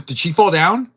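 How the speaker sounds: startled gasp. Real, not acted. Streamer sees teammate fall.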